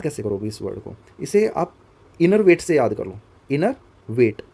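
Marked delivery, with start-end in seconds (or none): 3.5-4.4 "इनर वेट" as two separate words, inner and weight; split pronunciation. Shown as a demonstration. Teacher giving students a memory trick, "इनर वेट" split in two. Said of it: "pronounce करो कुछ इस तरीके से".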